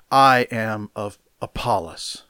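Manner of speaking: "I" punched at the front, falling away after; stress on I. Shown as a demonstration. Preacher quoting the boasting Corinthians, stress on "I". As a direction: lean hard on "I". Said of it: "the emphasis is on "I".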